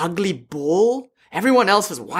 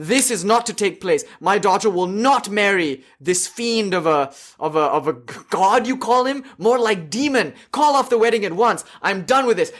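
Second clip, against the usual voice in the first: outraged queen; 3 semitones higher than usual. Retold or imitated. Queen mother refusing Shiva as groom, with mock fury. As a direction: storm out, refusing the match in outrage. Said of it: "she jumps out of a seat and she says".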